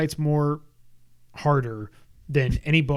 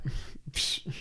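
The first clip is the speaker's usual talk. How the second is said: quick soft "psh, psh" noises; imitated swishing; 10 dB quieter than usual. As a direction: mouth the swishes of a fight. Mimes fighting through the castle.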